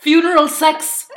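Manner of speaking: joking. Real, not acted. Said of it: "Nej, jag skojar".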